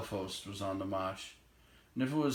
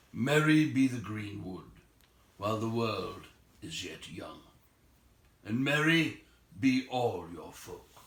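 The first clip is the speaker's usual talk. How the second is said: wizard blessing. Acted. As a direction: bless them like a wise old wizard. Gandalf blessing the elf king.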